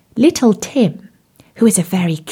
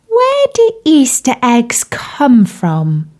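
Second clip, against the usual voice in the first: thoughtful tadpole voice; 4 semitones higher, slower than usual. Acted. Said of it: "Tim looked very thoughtful and asked".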